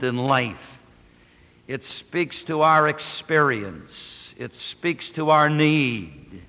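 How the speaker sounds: earnest prayer, unhurried and devout; pastoral prayer. Acted. Pastor praying for the congregation, devout. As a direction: pray on behalf of the church.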